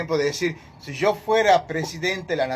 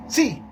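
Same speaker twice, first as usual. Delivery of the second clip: "Sí" pitched high and falling, as a firm yes; emphatic, positive "Sí"; accented affirmative sí; 8 semitones higher than usual. Shown as a demonstration. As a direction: punch "Sí" high, standing alone. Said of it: "con un acento, ese es positivo".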